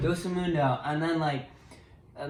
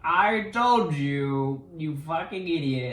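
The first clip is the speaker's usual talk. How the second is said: slow, stretched-out scolding; play-acted slow-burning anger; mock pissed-off Vader; 4 dB louder, slower than usual. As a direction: scold slowly, heavy on the opening words. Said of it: "He's pissed".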